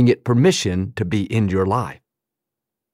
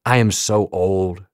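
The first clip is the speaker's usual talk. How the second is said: slow, lower, self-pitying grumble; mopey mutter; 3 semitones lower than usual. Retold or imitated. To the mirror, shaking the head, mock weary. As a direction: sigh it out at your own reflection. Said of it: "shake our head and say".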